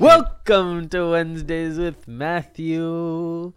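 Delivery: slow, drawn-out show intro; big announcer welcome, slowly. Acted. Podcast host intro announcement.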